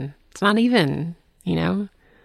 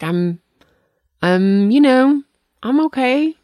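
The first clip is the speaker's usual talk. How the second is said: feeble reply; 10 semitones higher, 7 dB louder, slower than usual. Retold or imitated. Retelling her own feeble reply.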